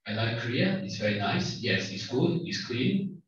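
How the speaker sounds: mock German accent building to a loud, angry complaint; bad German accent. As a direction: put on a bad German accent, growing heated. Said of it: "do a bad German accent".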